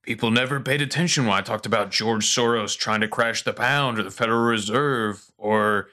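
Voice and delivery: N=Alex Jones/public; Alex Jones impression. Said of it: "and Alex is like".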